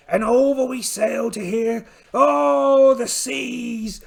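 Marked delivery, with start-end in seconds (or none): 2.1-4.0 a loud high "Oh" then the seas falling away; hammed-up pirate cry. Pirate captain bemoaning the battering seas, mock wail. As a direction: wail at the ocean like a ham actor.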